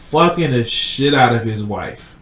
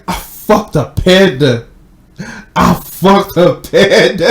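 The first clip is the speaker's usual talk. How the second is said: laughing mock boast; 5 semitones higher, 8 dB louder, slower than usual. Acted character boasting in retold story.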